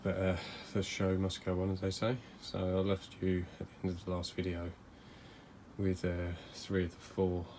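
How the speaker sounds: under the weather; feeling sick. Real, not acted. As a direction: voice a bit rough from illness. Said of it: "You have to excuse my voice, I'm a little bit under the weather".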